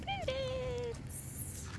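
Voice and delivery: high cooing pet voice. Real, not acted. Owner coos the dog's name sweetly, high baby talk. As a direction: coo her name up high to the dog.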